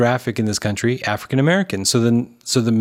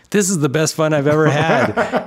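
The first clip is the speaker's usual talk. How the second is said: mock delight, slightly higher; Ryan Reynolds; 5 semitones higher than usual. Host quoting a delighted actor on set, playful excitement. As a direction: imitate an actor having a great time. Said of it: "here's Ryan Reynolds, and he's like".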